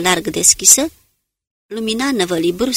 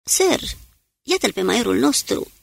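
shout; 4 semitones higher than usual. A narrator's reading. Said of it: "iar Kane strigă".

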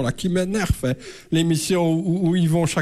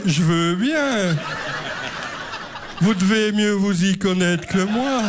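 slow naive reply; slower than usual. Retold or imitated. Narrator's own naive reply.

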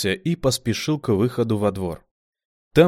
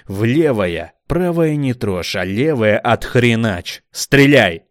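louder, slow commands; demanding; 2 semitones higher, 7 dB louder, slower than usual. A narrator's reading. Commander demanding Kamila shoot, loud. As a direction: bark orders.

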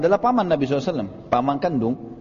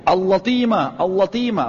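retold shout of attack; 3 semitones higher, slower than usual. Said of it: "Dia teriak".

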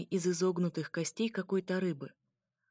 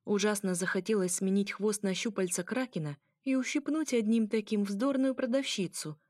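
usual speaking voice

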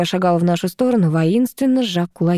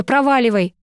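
sharp, raised command; angry; 5 semitones higher than usual. Acted. Girl angrily orders her ex away, raised voice. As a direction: throw him out with it. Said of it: "разозлилась я".

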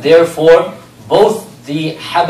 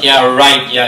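louder, lightly mocking dismissal; sarcastic mockery; 3 semitones lower, 6 dB louder, slower than usual. Jealous wives winking at each other about Safiya, mock sarcasm. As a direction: toss it off as an imitated sneer. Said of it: "they sarcastic, mock and whatnot".

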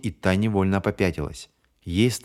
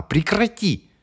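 a very high shrill cry; yelling; 12 semitones higher, slower than usual. Acted. Bonnie screams at James, very high. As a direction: scream the one word. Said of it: "заорала она".

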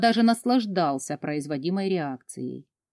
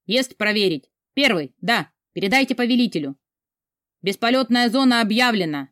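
radio chatter; 3 semitones higher than usual. Acted.

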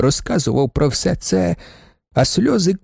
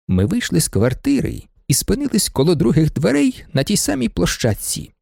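ordinary delivery

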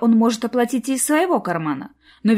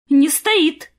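higher, louder flustered blurt; flustered babble; 8 semitones higher, 6 dB louder than usual. A narrator's reading. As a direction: blurt it out in a nervous rush. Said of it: "в волнении пролепетала Арина".

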